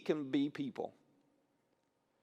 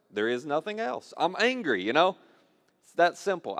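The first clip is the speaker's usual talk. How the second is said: higher, mock-angry insistence; raised-voice, hammed-up frustration; mock exasperation; 4 semitones higher, 5 dB louder than usual. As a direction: play an exasperated man insisting on his one feeling. Acting out a man insisting he's angry.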